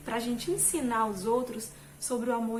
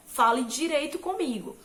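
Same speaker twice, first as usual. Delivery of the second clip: louder, curt scolding; harsh reaction; 3 semitones higher, 6 dB louder than usual. Retold or imitated. To a coworker who raised his voice, louder curt reprimand. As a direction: bark it back at a rude coworker. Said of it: "eu estou reagindo de uma forma nada sábia".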